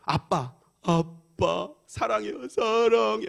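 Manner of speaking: effortful first speech, climbing in pitch; child learning to speak. Retold or imitated. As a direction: imitate a child carefully repeating new words. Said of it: "발음이 또박또박해지는 거야".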